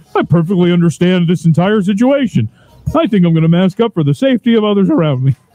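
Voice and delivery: laughing through put-on voice. Mock-quoting what a community might say, laughing while talking. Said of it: "I can't even say it without laughing".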